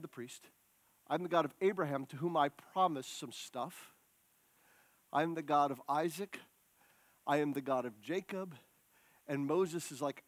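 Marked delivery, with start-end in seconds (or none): 0.0-8.5 soft, hushed God voice. Acted. Preacher voicing God to Moses, quietly and intimately. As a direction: speak the promises almost in confidence.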